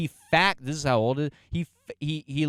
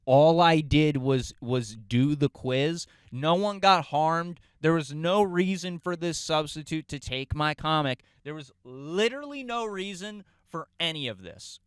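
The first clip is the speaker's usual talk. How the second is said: mock tearful protest, slowed down; half-acted crying kid begging to be heard; retold crying; 4 semitones higher, 4 dB louder than usual. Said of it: "So now I'm crying again".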